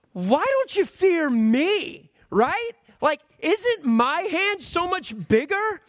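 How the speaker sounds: gently chiding, big and slow; voice of God. Retold or imitated. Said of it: "I could also see him going".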